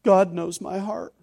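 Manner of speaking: mocking the defensive brush-off; smug, slow brush-off of a challenge; dismissive retort. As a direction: toss it off as a trump card. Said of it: "American Christianity responds with".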